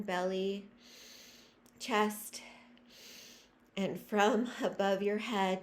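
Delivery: measured meditation leading with long pauses; guided breathing meditation. Real, not acted. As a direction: guide listeners breath by breath, letting phrases stretch.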